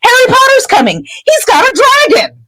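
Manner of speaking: high, wailing tattletale whine; snivelling pupil telling on others; whiny protesting boy. Retold or imitated. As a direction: plead desperately to be believed. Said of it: "And Malfoy says".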